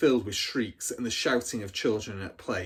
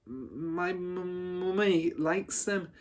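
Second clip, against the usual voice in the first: higher, small, stammering voice; a scared girl answering the headmistress; frightened stutter; 7 semitones higher than usual. Acted. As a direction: stumble over the words, terrified. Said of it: "managed to stutter".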